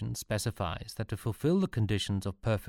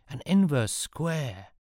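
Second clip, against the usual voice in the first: astonished; 7 semitones higher, 4 dB louder, slower than usual. Acted. Sean astonished question.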